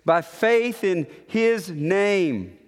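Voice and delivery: slow, with weight on "his name"; stress on his name. Shown as a demonstration. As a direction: spell out "his name" deliberately. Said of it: "this emphasis on his name".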